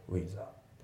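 "ウィザー" joined into one smooth word; linked sounds. Shown as a demonstration. Teacher repeating the correct take, linked "ウィザー". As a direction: let with flow straight into a in "ウィザー". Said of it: "リンキングで".

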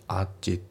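"アーチ" with the t of at left out; reduced at, no t sound; dropped T. Shown as a demonstration. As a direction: run at into the next sound, t unreleased. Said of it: "atのTがね".

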